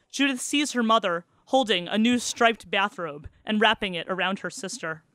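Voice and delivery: measured reading of a novel; story narration. A narrator's reading. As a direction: read it like a storyteller. Reads the novel aloud.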